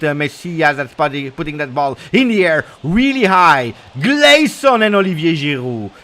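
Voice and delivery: lively running match commentary; live play-by-play. Acted. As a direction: keep calling the action, urging the team on.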